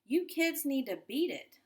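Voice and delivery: a loud, high, gruff yell. A narrator's reading. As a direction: shout the kids out of the hall. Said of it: "the guard yelled".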